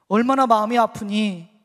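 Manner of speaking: loud, slow, imagined cry of sympathy; big, slow, imploring consolation; emphatic consoling. Retold or imitated. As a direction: press the comfort home forcefully, drawing it out. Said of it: "라고 적어도 위로하실 줄 알았습니다".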